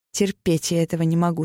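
ordinary delivery, nothing marked

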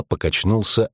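usual speaking voice

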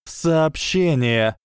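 slow, high, horrified exclamation; horrified cry. Acted. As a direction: cry it out in horror. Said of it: "с ужасом воскликнула".

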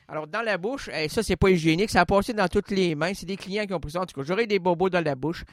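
talking with a pen in the mouth; pen between the teeth; crayon dans la bouche. Shown as a demonstration. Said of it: "Maintenant avec le crayon". (parler avec un crayon dans la bouche)

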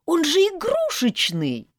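high, loud, drawn-out squeal; child squealing. A narrator's reading. Child insisting the horse is a toy, squealing. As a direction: squeal it in protest like a little kid. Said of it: "визжала".

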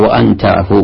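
وأن تعفوا with وأن said "wa-an"; fatha on the hamza. Shown as a demonstration. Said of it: "بفتح". (انطق وأن تعفوا بفتح همزة وأن)

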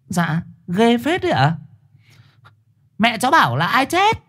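mushy high voices. Acted. Swollen-mouthed misheard dialogue.

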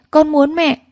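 put-on child begging harder for her mother; desperate wail. A narrator's reading. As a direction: escalate the cry into a howl. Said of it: "gào khóc la hét".

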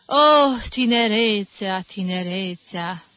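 loud sigh then fading; nostalgic exclamation. Acted. Mother marvelling at the young couple, loud then fading. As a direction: exclaim over youth, trailing off. Mother sighing over youth.

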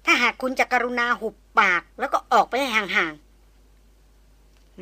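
each word set apart, slow and icy; pointedly slow, polite brush-off; slow, deliberate and formal. Acted. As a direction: spell it out slowly to shut him up. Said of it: "พูดเน้นเสียงแช่มช้า ชัดเจน และเป็นทางการ".

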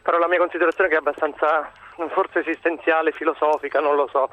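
slightly winded while walking; out of breath. Real, not acted. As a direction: talk while walking briskly. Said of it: "scusate se ho il fiatone, ma sto camminando".

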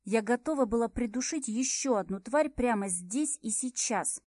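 usual speaking voice

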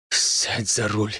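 slow, low, rasping command; hoarse croak. A narrator's reading. Major telling Evgen to take the wheel, hoarse and slow. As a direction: croak it out through a tight throat. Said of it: "прохрипел майор".

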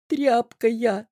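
put-on a sniffling girl; sobbing. A narrator's reading. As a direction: choke it out through tears. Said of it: "всхлипнула Тереза".

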